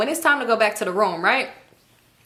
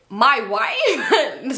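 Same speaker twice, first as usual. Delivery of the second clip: put-on voice of a rapper. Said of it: it's how a rapper said it.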